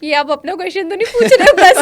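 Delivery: laughing tease at the host's question; teasing laugh. Real, not acted. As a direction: tease the host while laughing.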